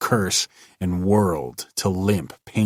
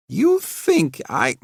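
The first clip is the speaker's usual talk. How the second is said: choked; 13 semitones higher, slower than usual. A narrator's reading. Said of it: "he choked".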